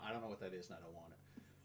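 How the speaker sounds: flat muttered no to pizza; sulky and very soft; low, quiet refusal. Retold or imitated. Acted picky partner.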